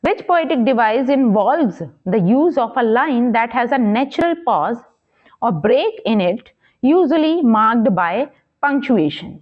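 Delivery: slow, measured question read-out. Acted. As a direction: read the exam question out slowly, word by word. Reads quiz question aloud.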